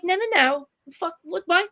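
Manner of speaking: retold outburst. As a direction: blurt it out in disbelief. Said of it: "I'm like".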